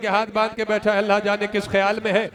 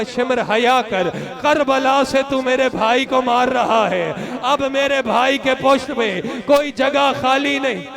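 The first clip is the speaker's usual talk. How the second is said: slow, tearful plea of a little sister; weeping girl's plea. Acted. Little sister begging the tormentor, slow and tearful. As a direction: beg him to stop, half in tears. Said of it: "एक मरतबा रो के कहा".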